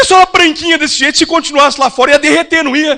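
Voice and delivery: loud, bright, cheeky question; matching her loud tone. Retold or imitated. Pastor answering the complaining lady, loud and teasing. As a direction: answer her at the same volume, playfully. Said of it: "no mesmo tom de voz dela".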